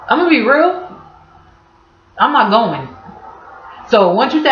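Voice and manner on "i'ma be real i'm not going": flat refusal. Retold or imitated.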